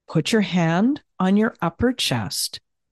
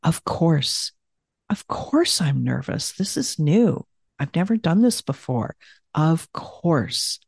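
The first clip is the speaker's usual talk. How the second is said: self-comforting; 3 semitones lower than usual. Shown as a demonstration. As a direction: soothe yourself through the nerves. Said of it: "comfort yourself with the phrase".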